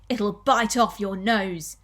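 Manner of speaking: slow, emphatic mock threat; menacing warning. Husband warning wife about her nose, menacing warning. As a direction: draw the warning out word by word.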